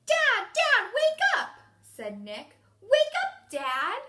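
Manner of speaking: put-on a child shouting to wake his sleeping father; Nick character voice. Shown as a demonstration. Teacher shows students how Nick might say it, loud and high. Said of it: "So he might say".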